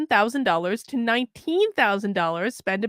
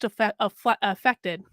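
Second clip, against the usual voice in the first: affe-, affe-, affected stumbled over slowly; stumbling stutter; 4 semitones lower, slower than usual. Real, not acted. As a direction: trip over the word affected. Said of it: "That's why I stuttered".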